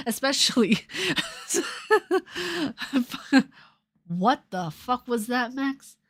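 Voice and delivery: cracking up mid-sentence; laughing. Real, not acted. Cracks up at Max's garbled words.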